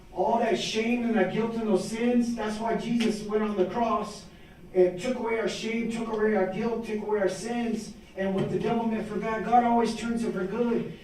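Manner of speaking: rhythmic preaching with lifted pitch; testimony turning into a sermon. Real, not acted. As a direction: preach the gospel in rising, rolling phrases. Preaches the gospel mid-testimony.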